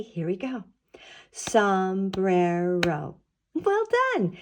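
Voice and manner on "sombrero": SOMBRERO very slowly, in three stretched beats; clapped out syllables. Shown as a demonstration. Teacher clapping out a word with children, syllable by syllable. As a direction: draw out each syllable of Sombrero. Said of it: "Let's count and clap out sombrero".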